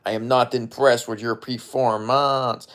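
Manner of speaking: put-on slow French-Canadian accent; mock French-Canadian fighter's accent, measured; GSP. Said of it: "Unless I'm doing, like, a G S P".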